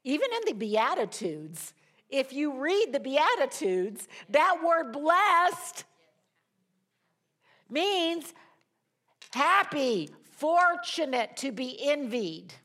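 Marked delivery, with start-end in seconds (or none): 4.3-12.5 high, loud, slow preaching of each word; emphatic slow. Real, not acted. Preacher to congregation on blessed, loud slow emphasis. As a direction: lean hard on every word.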